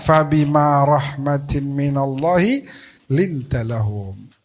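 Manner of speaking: slow, measured recitation of the verse; slow Quranic chant. Acted. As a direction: recite it with reverence. Quran verse quoted in sermon.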